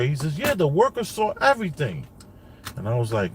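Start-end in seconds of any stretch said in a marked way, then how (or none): 0.4-2.1 son's voice. Retold or imitated. Father voicing young son's words.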